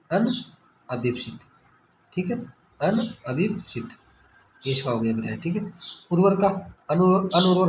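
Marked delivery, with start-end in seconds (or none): 0.1-1.4 slow, stretched-out अनभिप्सित with a falling end; drawn-out model answer. Shown as a demonstration. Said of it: "क्या होता है?". 2.8-3.9 drawn-out model answer. Shown as a demonstration. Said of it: "क्या होता है?".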